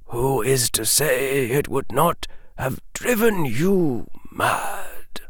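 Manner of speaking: put-on grave, measured old wizard. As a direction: warn him gently but gravely. Old wizard warns Harry.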